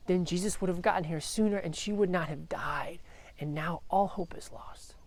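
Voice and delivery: a touch of defeat, half-whispered; deflated. Retold or imitated. Father at his dead daughter's house, mildly deflated whisper. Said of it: "Jairus is just deflated".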